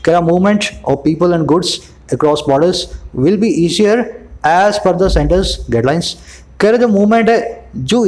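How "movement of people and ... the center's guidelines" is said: reads the English line slowly, word by word; slow news reading. Acted. Teacher reads the news line to his students, slow and measured. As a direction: lay out each phrase slowly for the class.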